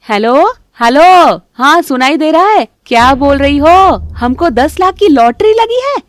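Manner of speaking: very loud, high, drawn-out phone shouting; loud fake phone call. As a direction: shout it out so the daughter-in-law hears. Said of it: "जोर-जोर से फोन पर बात करने". (ज़ोर-ज़ोर से नकली फ़ोन पर बात)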